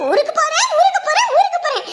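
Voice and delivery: high, sing-song mock of the daughter's words; mocking mimicry. Mother mocking her daughter's threat to leave, high and sing-song. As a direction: parrot her back with a laugh. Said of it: "இவ போற போறேன்றா".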